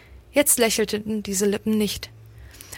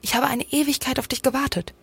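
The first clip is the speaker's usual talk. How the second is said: higher-pitched reproach; reproachful; 4 semitones higher than usual. A narrator's reading. Pale scolds him for making her wait, reproachful. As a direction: let a reproachful undertone into the complaint. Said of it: "mit vorwurfsvollem Unterton".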